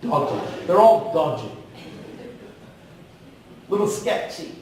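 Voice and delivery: thick British accent on dodgy. Shown as a demonstration. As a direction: say it like a Brit. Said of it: "with a thick British accent".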